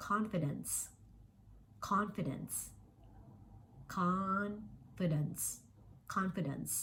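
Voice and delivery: careful teacher model of Confidence, word by word; word demo. Shown as a demonstration. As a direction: say "Confidence" clearly for learners, falling at the end. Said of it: "ตรงนี้นะคะ เห็นไหม?". (สาธิตออกเสียง Confidence ช้าๆ ชัดๆ)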